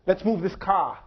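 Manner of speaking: lightly imitated Boston detective, terse; a touch of Boston accent on a curt order; curt Bostonian accent. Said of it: "with a Bostonian accent who says quite curtly".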